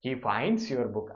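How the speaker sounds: very slow repeat. Shown as a demonstration. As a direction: say it again slowly. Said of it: "അവസാനത്തെ example".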